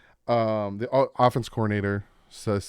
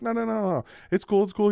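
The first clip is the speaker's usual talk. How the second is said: imitating Tua; 11 semitones higher, 6 dB louder than usual. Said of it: "And Tua was like".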